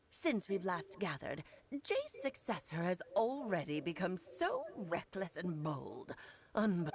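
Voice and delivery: lightly voiced stern old crone; a hint of the old hag's scolding. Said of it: "talking just like the old hag".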